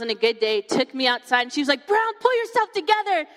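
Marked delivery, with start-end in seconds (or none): 1.9-3.3 high-pitched imitation of a friend's scolding; mock a friend urgently telling you to get a grip; exasperated best friend. Best friend shaking her out of a meltdown, exasperated. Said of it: "like, started shaking me".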